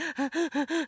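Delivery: sharp high gasp for air; short strangled inhale; gasping sob. Shown as a demonstration. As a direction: show the panicked gasping cry. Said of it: "that's literally how I was crying".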